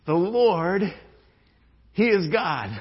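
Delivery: loud, ringing declaration; shouted proclamation. Acted. Preacher voicing the crowd, loud shout. Congregation shouting the Lord is God.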